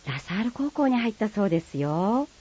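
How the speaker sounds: polite standard Japanese. Acted. Friend passing on school news in polite standard Japanese. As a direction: report it politely in standard speech. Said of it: "標準語と鹿児島弁".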